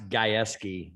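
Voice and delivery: Gajewski said as "guy-ESS-kee"; Gajewski pronunciation. Shown as a demonstration. Guest telling the host his last name, Gajewski pronounced "guy-ESS-kee". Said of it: "what's the correct pronunciation".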